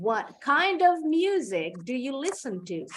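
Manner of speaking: "What kind of music do you listen to?" said evenly, with "of" kept whole; teacher's careful model before the fast version; careful full form. Shown as a demonstration. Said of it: "Kalau cepat".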